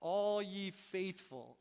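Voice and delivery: deflated quote. Shown as a demonstration. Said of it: "you get hit with reality".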